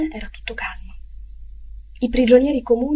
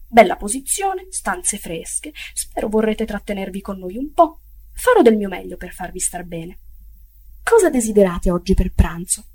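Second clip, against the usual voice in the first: lightly voiced obsequious cook, eager to please; bow and scrape with your voice; a hint of a servile innkeeper; fawning sutler. Sutler bows and fawns.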